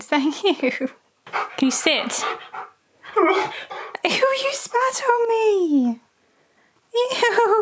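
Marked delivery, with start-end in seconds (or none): 3.2-7.6 disgusted. Real, not acted. Dog spat on her.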